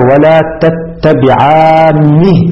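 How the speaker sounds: "تتبعانه" chanted slowly with a doubled n; doubled, heavy nun. Shown as a demonstration. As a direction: draw out the aa, then geminate n in "تتبعانه". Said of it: "بالتشديد".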